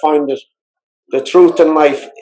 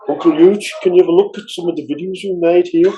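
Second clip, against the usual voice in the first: lightly imitated Liverpool accent, higher than usual; 4 semitones higher than usual. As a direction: retell it as the nephew's Scouse request. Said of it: "in his Liverpool accent".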